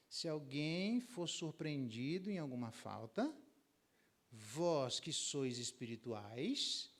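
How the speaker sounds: slow, deliberate scripture recital; slow preacher reading. Acted. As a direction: read the verse slowly and gently. Reads scripture slowly.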